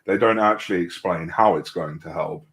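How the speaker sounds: sarcastic. Real, not acted. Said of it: "That's sarcasm".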